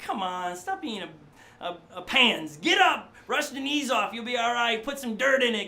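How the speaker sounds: put-on buck up a crying kid without fuss; tough-love parent.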